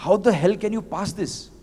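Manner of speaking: mock the furious partner's outburst; mild retold anger. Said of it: "furious, mad at me".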